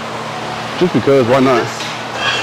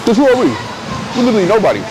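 animated; 9 semitones higher, faster than usual. Real, not acted. Self-mocking aside.

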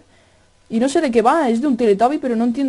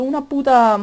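ordinary talk, nothing marked

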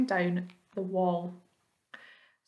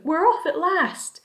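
high, loud, slow jubilant call; drawn-out shout; 7 semitones higher, 5 dB louder, slower than usual. A narrator's reading. Someone announcing the long-awaited departure, drawn-out shout. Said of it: "someone was shouting".

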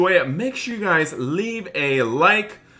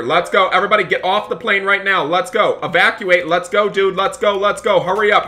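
louder, hurried orders; urgent shouting; 3 semitones higher, 4 dB louder than usual. Acted. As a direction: push everyone out fast. Evacuating sinking plane.

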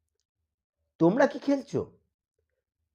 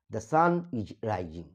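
"the sun is rising" said very slowly, word by word; dictation-slow "the sun is rising"; slow demo; 4 semitones lower, 4 dB quieter, much slower than usual. Shown as a demonstration.

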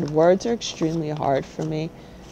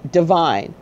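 Divine said alone, firm and falling; one firm falling word, Divine; stress on divine. Shown as a demonstration. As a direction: lean hard on Divine. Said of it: "Emphasis on the word divine".

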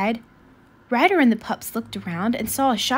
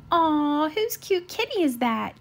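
cooing; 5 semitones higher, slower than usual. Acted. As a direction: gush sweetly at the kitty. Katie cooing over kitten.

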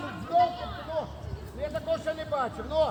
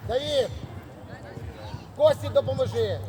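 shouted orders. Real, not acted. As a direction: call players back across the pitch. Coach calls players back into position.

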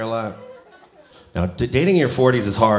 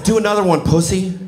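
higher, pushy coach yell; mock trainer yell; 5 semitones higher than usual. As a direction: bark it like a mean trainer. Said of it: "He would yell at me".

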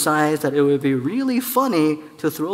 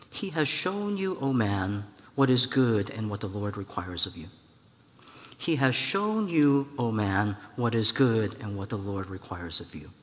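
solemn prophet; 4 semitones lower, 5 dB quieter than usual. Acted. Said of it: "and says".

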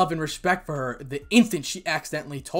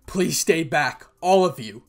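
slow, louder plea with a touch of hurt; broken voice; 2 semitones higher, 6 dB louder, slower than usual. Acted. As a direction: slowly beg them all to keep back. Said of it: "in a voice that was broken".

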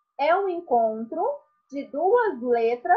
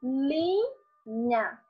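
slowly stretched; 4 dB quieter, much slower than usual. Shown as a demonstration. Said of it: "elas não se separam".

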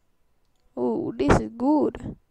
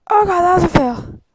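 high, loud mock wail; half-crying loud oh God; wailing fail cry; 6 semitones higher, 9 dB louder than usual. Real, not acted. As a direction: wail over the failed jump. Game fail.

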